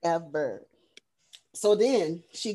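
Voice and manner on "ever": EVER dropped low with a falling end; low deadpan repeat. Real, not acted. Host seals her praise of the scene, low final EVER. Repeats word, now settling down.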